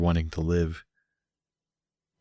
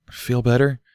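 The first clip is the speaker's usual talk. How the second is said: concerned question; 5 semitones higher than usual. A narrator's reading. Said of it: "still looking very concerned".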